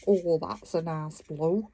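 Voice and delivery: broad northern Lancashire vowels on "nice blue"; local Lancashire accent. Shown as a demonstration. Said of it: "a bit of local accent".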